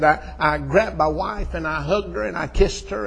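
loud, high, breakneck joy of a retold reunion; excited. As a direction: preach his excitement at full voice. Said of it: "I got so excited".

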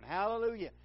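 loud, high shouted response; drawn-up cry of praise; congregational shout. Retold or imitated. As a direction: call it out like a crowd answering. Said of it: "they'd read another one".

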